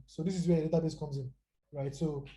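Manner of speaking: speaking while catching breath; winded, breathing between words. Real, not acted. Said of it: "sorry, I'm catching my breath".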